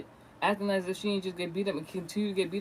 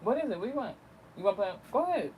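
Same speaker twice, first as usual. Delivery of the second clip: higher-pitched questioning aside; indulgent aside; 3 semitones higher, faster than usual. Real, not acted. Vlogger pausing to ask someone if they want to play, high coaxing. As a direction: break off and coax someone nearby in a high voice.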